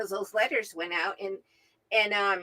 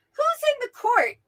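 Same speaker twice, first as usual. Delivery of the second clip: higher, louder royal call; king calling out; 14 semitones higher, 7 dB louder than usual. Retold or imitated. King demanding in retold story.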